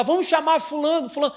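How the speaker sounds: high, loud invitation; high, loud friend suggesting an invite; friends planning. Retold or imitated. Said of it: "eles vão falar".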